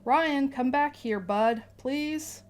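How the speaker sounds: dad calling across the store; calling out to son. Acted. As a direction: call the kid back, gently firm. Calling his son back.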